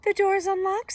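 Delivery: put-on high, loud old-lady call; Granny calling out. A narrator's reading. Granny letting in her visitor, calling out. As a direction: call it high across the house.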